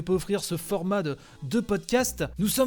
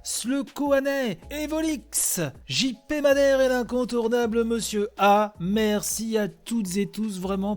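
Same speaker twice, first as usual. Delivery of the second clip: higher, lively list of thanks; upbeat shout-out; 4 semitones higher than usual. Real, not acted. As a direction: call each name out cheerfully. Reads out thanks to supporters.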